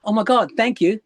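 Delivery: lightly gushing thanks; grateful comeback. Acted. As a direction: act out thanking a bully as if delighted. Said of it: "turn around and go".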